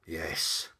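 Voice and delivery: grudging demon's yes; mildly bitter, resentful demon; bitter concession. Acted. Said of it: "it conceded bitterly".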